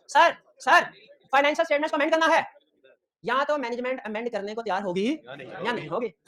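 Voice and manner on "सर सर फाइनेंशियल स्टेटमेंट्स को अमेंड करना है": urgent plea. Retold or imitated. Auditor rushing to tell management.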